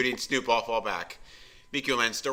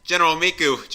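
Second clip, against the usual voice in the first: exclaiming; 8 semitones higher, 9 dB louder than usual. Acted. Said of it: "Junie exclaimed".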